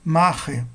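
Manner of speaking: "Marre" stressed on its first syllable, MA; penultimate stress. Shown as a demonstration. Teacher giving Greek accent examples, "Marre" stressed on MA. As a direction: hit MA in "Marre". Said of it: "penúltima sílaba".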